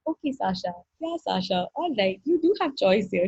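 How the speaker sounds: gently indulgent imitation of a facilitator; kindly, placating retold reply; sweet and patient. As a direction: soothe sweetly, softening the opening words. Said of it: "she was so sweetly".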